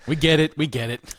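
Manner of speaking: loud, laughing we get it; laughing exasperation. Real, not acted. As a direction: laugh it out, fed up. Mock exasperation at joke.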